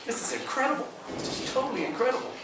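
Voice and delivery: high, awed voice full of wonder; overjoyed disbelief. Retold or imitated. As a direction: lift it up in sheer amazement. Overjoyed quote while crying.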